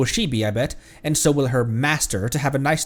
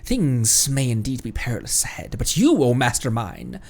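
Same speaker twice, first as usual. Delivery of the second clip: hushed genie voice. Acted.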